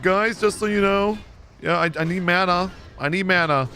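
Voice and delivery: high, silly announcing voice; Jesse Cox, funny voice. Retold or imitated. Healer telling the group he needs mana, funny voice. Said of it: "He does this funny voice".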